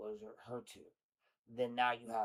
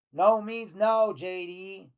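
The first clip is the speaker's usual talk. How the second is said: high, loud and slow, stretching every word; loud exasperated no; 8 semitones higher, 12 dB louder, much slower than usual. Real, not acted. Host yelling back at JD's texts, loud and slow. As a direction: shout it out slowly in disbelief. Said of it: "own reaction to the texts".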